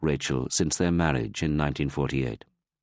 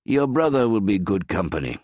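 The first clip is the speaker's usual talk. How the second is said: bright forced cheer, higher and louder; father cheering up his son, louder and higher; cheerful; 5 semitones higher, 4 dB louder than usual. Acted. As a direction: put on a brave cheerful face. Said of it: "Moshe said in a cheerful voice".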